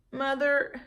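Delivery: put-on high child's voice, resolved; girl deciding to do right; a small sincere child; little girl voice. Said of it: "Jamaica said".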